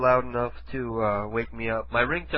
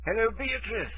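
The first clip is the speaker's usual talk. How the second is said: higher-pitched fake British accent; British prank caller; 8 semitones higher than usual. Prank caller greeting the woman called, fake British accent. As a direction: put on a sing-song British hello.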